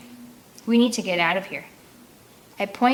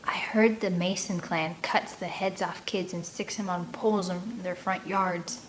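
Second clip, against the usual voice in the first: whisper; 5 dB quieter than usual. Acted. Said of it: "Rocky whispers".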